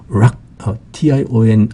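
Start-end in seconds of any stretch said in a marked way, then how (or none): 0.1-0.4 "rock" said alone as the stressed syllable of obstruction. Shown as a demonstration. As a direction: isolate "rock" as a stressed beat. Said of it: "여기에 강세가 있고요".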